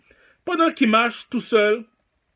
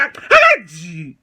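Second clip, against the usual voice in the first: shrieked stop; 3 semitones lower, 7 dB louder, much slower than usual. Acted. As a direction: shriek it at him. Sudden squeal in argument.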